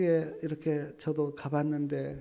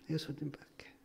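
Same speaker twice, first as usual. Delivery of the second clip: much softer repeat of 예수님밖에; hushed echo; 12 dB quieter than usual. Real, not acted. Preacher echoing 예수님밖에 quietly to the congregation. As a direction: let 예수님밖에 fall to a hush.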